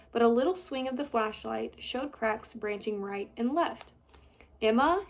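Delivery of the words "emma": called name, rising; calling. Acted. Boy searching the ruins, calling her name. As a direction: call her name into the dark. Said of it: "he called".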